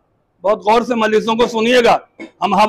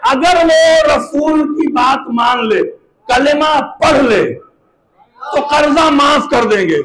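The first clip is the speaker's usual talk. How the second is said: slow, drawn-out pulpit declamation; preaching proclamation; 3 semitones higher, much slower than usual. Acted. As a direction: stretch the words out to the whole congregation.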